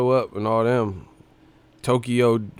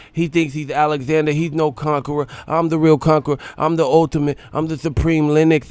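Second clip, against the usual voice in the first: boastful Tyson threat, pitched up; Tyson impression; 4 semitones higher, 3 dB louder than usual. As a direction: puff up like Tyson hyping himself.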